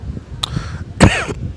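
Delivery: sudden choking cough on a grape. Real, not acted. Vlogger chokes on grapes mid-video, coughing fit. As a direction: cough hard as food goes down wrong. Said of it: "I'm choking on grapes".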